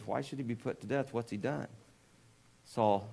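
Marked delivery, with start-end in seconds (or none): 0.0-1.7 Jonathan pleading in a softer voice; a son softly pleading with his furious father; quiet appeal. Retold or imitated. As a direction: plead gently, pulling the volume down. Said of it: "Jonathan appeals".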